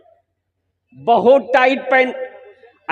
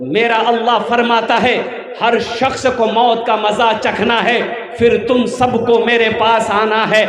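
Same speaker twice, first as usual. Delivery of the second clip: emphatic sermon delivery, phrase by phrase; preaching. Real, not acted. Preacher urges Muslims to strengthen their faith, preaching. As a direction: exhort the crowd with measured force.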